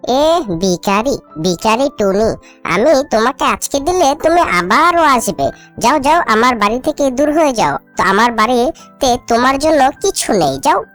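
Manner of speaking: low, sneering rebuff; scornful dismissal. Acted. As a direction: send a beggar packing with disdain. Crow scornfully sends beggar away.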